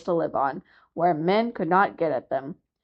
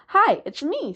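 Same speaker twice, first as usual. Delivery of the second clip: calling out; 9 semitones higher, 3 dB louder than usual. A narrator's reading. Seal calls up to walrus.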